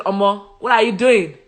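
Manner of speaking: mock exasperated worshippers laughing; pleading, laughing. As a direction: coax the fallen idol up, half laughing. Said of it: "They said".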